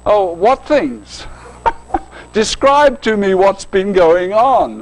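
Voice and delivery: slow, mock-innocent question with a laugh; playing innocent. Jesus teasing the disciples, slow mock innocence. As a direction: drag it out like you know the answer.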